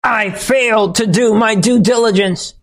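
mock tearful Jenna Ellis. Host mocking Ellis's tearful plea apology, whiny high mock sob. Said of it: "her voice breaking at times".

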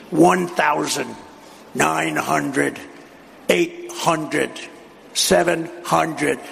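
slow, flat counting like an automated cockpit voice; computer voice. Retold or imitated. Pilot cockpit computer calls out the altitude, slow mock machine voice. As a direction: lightly mimic the plane's altitude callout. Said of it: "They have a computer voice".

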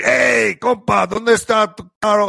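high-pitched call across the street. Retold or imitated. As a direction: hail the guy in Spanish, pitch up. Calling out to car washer.

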